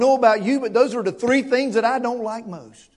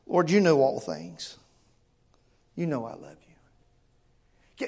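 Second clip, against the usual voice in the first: slow, much softer broken answer; 3 semitones lower, 4 dB quieter, slower than usual. Acted. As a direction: let the voice nearly give out. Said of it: "can you hear the brokenness in his voice".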